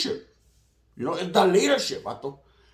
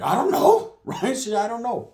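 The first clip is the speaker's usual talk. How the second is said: sing-song high I don't know; high playful; 8 semitones higher than usual. Real, not acted.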